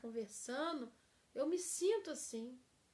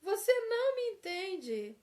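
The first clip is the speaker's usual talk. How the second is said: loud, much higher reproach; accusing complaint; 6 semitones higher, 6 dB louder than usual. Shown as a demonstration. Teacher mimics a quarrelling spouse, loud reproach. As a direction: fling it at them. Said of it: "Olha a frase certa".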